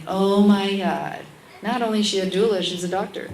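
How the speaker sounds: loud mocking outburst; sarcastic devil. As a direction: scoff sarcastically. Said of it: "the little devil's like".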